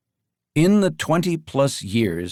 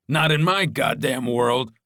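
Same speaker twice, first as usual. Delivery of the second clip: snapped; 2 semitones higher than usual. Acted. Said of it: "Jimmy snapped".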